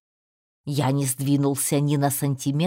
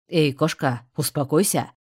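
rat shouts; 2 semitones higher, 4 dB louder than usual. A narrator's reading. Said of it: "прикрикнула на меня крыса".

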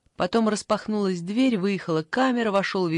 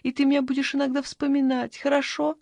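pleading granny; 7 semitones higher than usual. Acted.

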